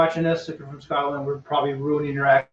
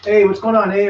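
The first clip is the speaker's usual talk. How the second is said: louder mock Canadian tag talk; Canadian accent; 4 semitones higher, 4 dB louder, slower than usual. Explaining by comparison with Canada, mock Canadian accent. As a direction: imitate a Canadian, tagging each end. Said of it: "like in Canada, they say".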